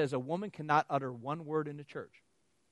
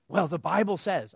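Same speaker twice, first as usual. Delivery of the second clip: slow, louder, higher know-it-all; mock objector; 4 semitones higher, 10 dB louder than usual. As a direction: play the smug objector. Retold objector answering.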